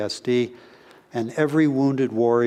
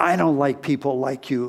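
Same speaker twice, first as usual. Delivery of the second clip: mock shouting, like a drill sergeant; 2 semitones higher than usual. Recounting a master sergeant pointing and shouting at him, imitating the sergeant shouting. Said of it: "he's shouting at me".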